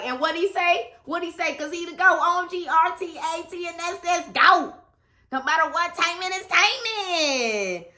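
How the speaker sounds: gushing, chanting his lyric; excited. Real, not acted. Hyping her idol's song.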